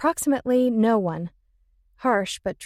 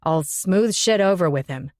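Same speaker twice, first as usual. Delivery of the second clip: angry male voice; 3 semitones lower than usual. Acted. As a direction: keep the anger going. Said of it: "his voice full of anger".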